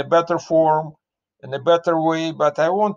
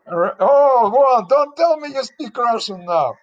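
high, loud delighted surprise; surprised; 8 semitones higher, 4 dB louder than usual. Real, not acted. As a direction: caught off guard, pitch jumping up. Hearing the guest speaks Russian.

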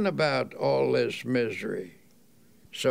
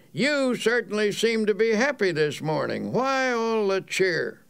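raised pitch, a touch of sarcasm; mildly sarcastic; 4 semitones higher than usual. Retold or imitated. Grumpy traveler to the cheerful man, mildly sarcastic. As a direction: needle him lightly about his cheer. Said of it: "one said rather sarcastically".

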